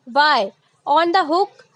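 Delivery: reads the sentence very slowly; slow reading. Shown as a demonstration. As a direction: spell it out word by word for the class. Teacher reads example slowly. (धीरे-धीरे पढ़ना)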